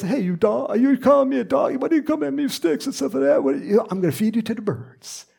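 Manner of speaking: mock giant sneering at a boy; Goliath taunt.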